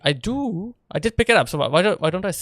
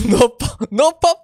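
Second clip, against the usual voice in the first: squeaky high, louder mock complaint; mock whiny protest; 8 semitones higher, 5 dB louder, slower than usual. Streamer voicing the sheep to chat, whiny high protest. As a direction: whine it like a sulking sheep denied a treat.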